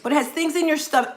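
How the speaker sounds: rushing through a brain freeze; pushing past a brain freeze. Real, not acted. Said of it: "I'm getting a brain freeze".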